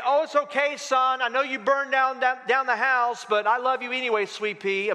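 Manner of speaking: mock coddling; overindulgent parent. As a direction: reassure a child far too sweetly, hammed up. Voicing an overindulgent parent to son.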